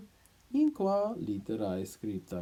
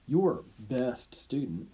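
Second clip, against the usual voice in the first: slow, louder mock praise; sarcastic; 4 dB louder, slower than usual. Doctor mocks the teacher's favourite pupil, sarcastic. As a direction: drip irony on best student. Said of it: "he says with some sarcasm".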